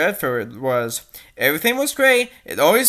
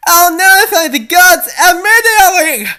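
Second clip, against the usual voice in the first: high, loud urgent vow; urgent declaration; 13 semitones higher, 9 dB louder than usual. Acted. Niall urgently promises to alert the gods. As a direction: promise action in a hurry.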